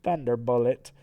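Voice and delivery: soft, deadpan robot aside; lightly voiced underwhelmed newcomer; Metal Sonichu. Newborn robot questions orders, softly deadpan. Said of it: "Metal Sonichu is like".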